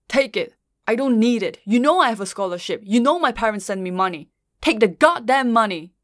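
exasperated, rising to a loud finish; yelling. Acted. Partner forcing money on a starving student, yelling. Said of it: "never had someone yell at me".

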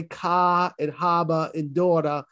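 Boston pronunciation with dropped R's; light Boston accent demo. Shown as a demonstration. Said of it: "not to use my Boston accent".

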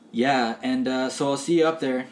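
dropping the character into easy, offhand chat; just chatting like yourself; super casual voice. Acted. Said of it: "Starts talking in a super casual voice".

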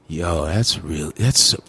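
low, slow white-dude impersonation; white dude talking. Retold or imitated. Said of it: "I've heard some white dudes talk".

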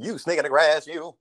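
a hint of a 1960s black-and-white film villain; old-movie villain line. Mocking her friend's old-fashioned insult, like a sixties movie. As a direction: say it like an old TV heavy, lightly. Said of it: "Why you sound like one of them black and white nineteen sixties".

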